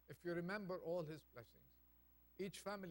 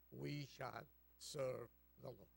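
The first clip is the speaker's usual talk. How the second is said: call and response; 3 semitones lower, slower than usual. Shown as a demonstration. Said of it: "Please say it with me".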